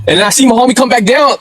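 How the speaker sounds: ordinary delivery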